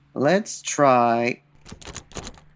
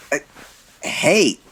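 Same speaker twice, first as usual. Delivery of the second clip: louder, higher fending off; startled protest; 6 semitones higher, 4 dB louder than usual. Acted. Detective fending off woman climbing on him, louder protest. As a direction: push her off, exasperated.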